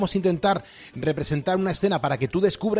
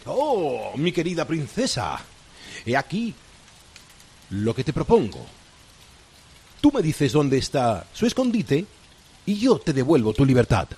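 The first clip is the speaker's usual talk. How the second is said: villainous pirate captain. Acted. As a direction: gloat like a sly pirate captain. Radio host plays the pirate captain.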